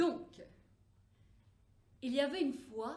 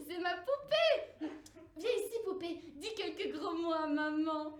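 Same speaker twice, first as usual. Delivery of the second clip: put-on laughing little girl; 3 semitones higher than usual. Girl answers mother, laughing.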